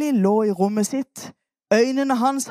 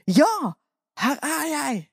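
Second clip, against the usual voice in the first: put-on boy Samuel answering; 4 semitones higher than usual. Shown as a demonstration. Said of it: "hva sa du da".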